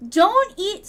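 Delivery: high, loud command; mock scolding. Streamer stopping viewers eating each other, in mock scolding. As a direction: cut in with a sudden loud warning.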